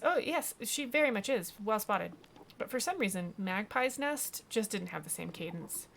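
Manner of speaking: lilting, mildly theatrical shopkeeper; lightly voiced eccentric alchemist. Alchemist tells Wake about her wares, lightly theatrical.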